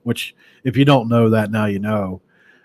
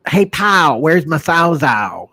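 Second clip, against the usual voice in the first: higher dad voice, slow on the question; dad's voice; 5 semitones higher, 3 dB louder, slower than usual. Retold or imitated. Son imitating dad asking for the Sawzall, higher. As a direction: ask it like dad missing his saw. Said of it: "the way my dad said that".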